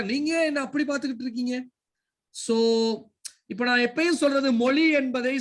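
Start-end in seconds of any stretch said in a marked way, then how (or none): 0.0-1.7 mildly doubtful, quick questioning; suspicious question. Shown as a demonstration. Teacher showing Prashant a suspicious way to ask, mildly suspicious. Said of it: "சந்தேகமா கூட கே".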